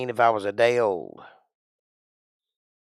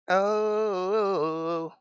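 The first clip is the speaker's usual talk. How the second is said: surprised oh; 9 semitones higher than usual. Real, not acted. Sudden realization.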